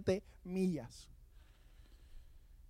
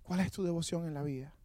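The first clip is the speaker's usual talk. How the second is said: "¿Cuál es tu devoción en la vida?" asked again much softer, inward; soft repeat; 7 dB quieter than usual. Acted. Preacher quietly asking the church again, soft. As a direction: drop the voice and let the question sink in.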